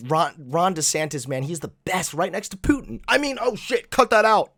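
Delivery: mock a pundit's slip, then panic; mocking impression. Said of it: "He's gonna say".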